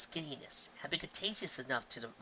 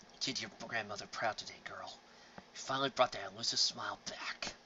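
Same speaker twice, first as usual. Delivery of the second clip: soft unvoiced whisper; 3 semitones lower, 6 dB quieter than usual. Grandfather whispering praise into her ear, whispered. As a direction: lean in and whisper it close. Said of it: "whispered into her ear".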